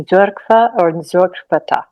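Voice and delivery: Църква or църквата at half speed, each syllable spaced; very slow learner's repeat of Църква and църквата; slow careful repeat. Shown as a demonstration. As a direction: drag out Църква and църквата to practise the ts sound. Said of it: "say the church again".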